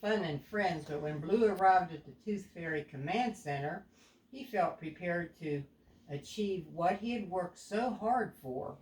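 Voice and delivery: put-on a clear, even storybook read to a young child; storytelling narration. A narrator's reading. Parent reading a picture book aloud to a child, storybook voice.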